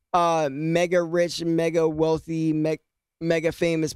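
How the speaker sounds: talking through hiccups; words broken by hiccups. Real, not acted. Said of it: "I got the hiccups".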